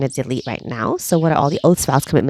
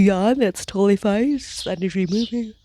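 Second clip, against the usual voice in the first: high, whispered reassurance; 5 semitones higher than usual. Acted. Guide reassuring a yawning listener, whispered. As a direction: whisper it lightly and kindly.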